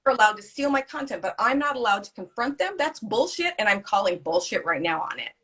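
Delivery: calling out the injustice with mock fury; retold furious rant. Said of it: "And I just lost my shit".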